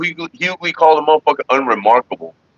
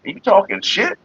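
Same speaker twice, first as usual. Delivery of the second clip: mock indignant rich man; 5 semitones higher than usual. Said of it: "It's like".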